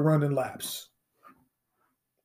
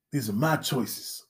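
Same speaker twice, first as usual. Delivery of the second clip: slow, low, softer pronouncement; soft and slow, mock solemn; mock smug dropout; 4 semitones lower, 6 dB quieter, slower than usual. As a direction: say it like a grand solemn decision. Mock student's smug line.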